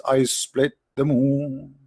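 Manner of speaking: slow, drawn-out mock declaration of a god; lightly voiced, mocking slow pronouncement; mock divine proclamation. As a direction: spell out each word slowly like a grand decree. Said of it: "shouldn't Allah says".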